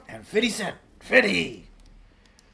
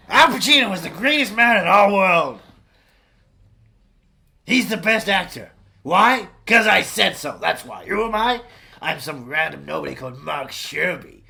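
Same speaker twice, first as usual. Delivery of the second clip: mock audiobook read; 4 dB louder than usual. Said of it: "We've got a snippet of it now".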